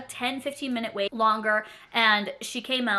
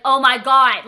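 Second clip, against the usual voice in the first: shouted Oh my God in panic; panicked loud gasp; 3 semitones higher, 13 dB louder, slower than usual. Retold or imitated. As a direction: blurt it out loud, alarmed. Panic at realising they lied.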